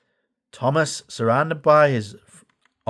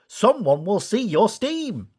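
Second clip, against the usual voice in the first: higher, slow engine voice; hopeful little engine; Bash voice; 7 semitones higher, slower than usual. A narrator's reading. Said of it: "Bash suggested".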